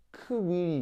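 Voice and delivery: "크윌이" split into "크" and "윌이"; 분리된 크-위 발음. Shown as a demonstration. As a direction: sound out "크윌이" with a separate "크". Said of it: "이걸 빨리 발음하는 거예요". ("크윌이"를 "크"와 "위"로 나눠 발음)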